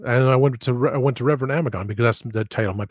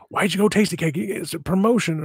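mock brother; 8 semitones higher than usual. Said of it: "And my brother goes".

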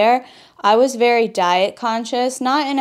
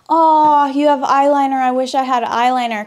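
mock gushing girl; 4 semitones higher than usual. Mimicking envious dorm girls admiring her eyeliner, mock gushing. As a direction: imitate an envious schoolmate gushing. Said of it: "And I remember girls saying".

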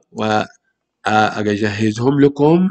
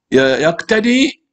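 slow model word; 3 semitones higher, much slower than usual. Shown as a demonstration. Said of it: "teacher models the verb slowly".

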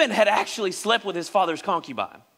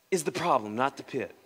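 dropped to quiet; 7 semitones lower, 7 dB quieter than usual. Acted. Preacher drops voice for contrast.

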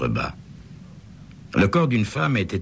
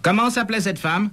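a higher, brisk policeman's question. A narrator's reading. Scene: officer asks the manager the dead woman's name, brisk.

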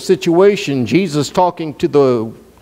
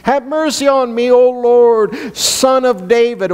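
higher, slow pleading plea; crying out for mercy; 6 semitones higher than usual. Retold or imitated. Woman of Cana crying out to Jesus, higher pleading voice. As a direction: beg the Lord for your daughter. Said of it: "she cried out saying".

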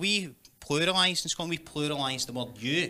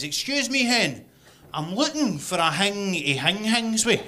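lightly voiced shop customer; 4 semitones higher, 4 dB louder, slower than usual. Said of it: "there was a guy in front of me in the queue".

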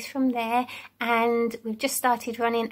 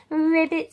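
frog ribbit; 4 semitones higher, 3 dB louder than usual. Shown as a demonstration. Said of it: "sounds of the animals".

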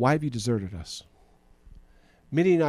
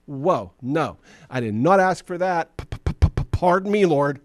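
higher, louder, stammering alarm; panicked refusal; 4 semitones higher, 4 dB louder, slower than usual. Retold or imitated. Gideon recoiling from being sent by the Lord, panicked and stammering. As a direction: back away in a panic, stuttering. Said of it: "they go".

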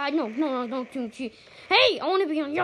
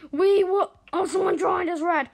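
high, loud victory call; excited announcing; 5 semitones higher, 5 dB louder than usual. Real, not acted. Player celebrating with team, high excited voice. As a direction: burst out with the good news. Celebrates win, spots new teammate.

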